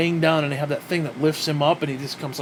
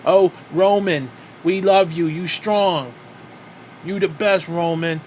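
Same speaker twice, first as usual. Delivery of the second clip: mock adoring fan; 3 dB louder than usual. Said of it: "foreigners who are illiterate as fuck".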